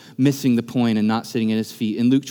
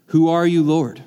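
startled question; 2 semitones higher than usual. Acted. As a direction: call it out in shock. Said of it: "so much in that simple phrase".

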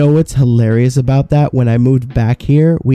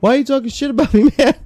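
high, fast, laughing imitation of Juan; mock Juan; 11 semitones higher, much faster than usual. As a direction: squeak out the complaint, half laughing. Juan confronts coworkers.

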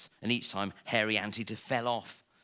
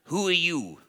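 higher, louder startled question; lion's startled question; 7 semitones higher, 5 dB louder than usual. Acted. Lion startled by God sliding down a giraffe, in a higher, louder question. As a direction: demand it, caught off guard.

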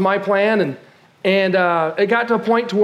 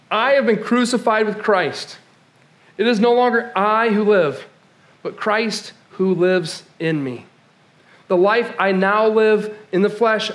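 scripture reading. Acted. Reads scripture aloud.

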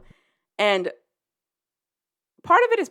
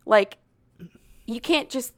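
alarmed yell; 8 dB louder, slower than usual. Retold or imitated. Retelling Addison yelling at him to stop. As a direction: voice climbing to a loud shouted stop.

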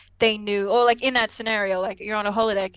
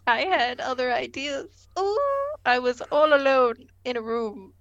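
reluctant Will; 3 semitones higher than usual. Acted. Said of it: "And Will's like".

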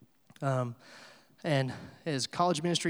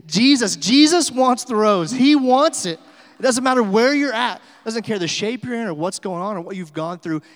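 very loud, high-pitched preaching cry; as emphatic as possible; 6 semitones higher, 13 dB louder than usual. Real, not acted. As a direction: proclaim it with full force. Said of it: "answer this as emphatically as I can".

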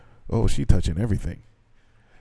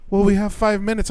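mocking the teacher; 10 semitones higher than usual. Teacher quoted, higher.

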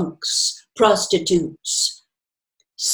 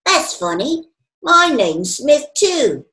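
put-on amused drunk woman; 8 semitones higher, 3 dB louder than usual. A narrator's reading. Woman amused at shared name.

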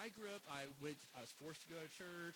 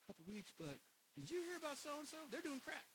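mocking gossip; 3 semitones higher than usual. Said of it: "It's like".

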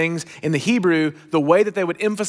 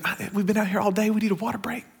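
timid repeat; 3 semitones higher, 5 dB quieter, faster than usual. Retold or imitated. Player repeats request, intimidated.

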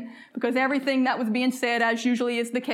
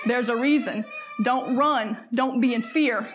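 impassioned preaching. Real, not acted. Preaching at full force.

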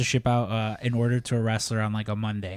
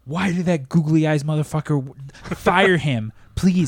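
exasperated boss ranting, voice climbing; imitating the boss demanding the worker be fired; mock angry boss; 3 semitones higher than usual. Boss fuming to staff about a messed-up order, mock angry.

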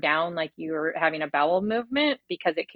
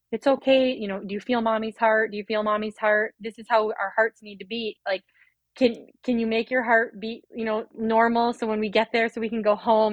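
retold comforting of her baby, higher and choked up; tearful soothing; 4 semitones higher than usual. Mother reassuring her baby on the drive to hospital, tearful soothing. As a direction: soothe a newborn through held-back tears. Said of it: "I'm, like, crying".

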